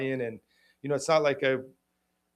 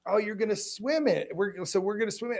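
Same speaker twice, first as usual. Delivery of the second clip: sarcastic; 7 semitones higher than usual. Retold or imitated. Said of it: "And I'm like".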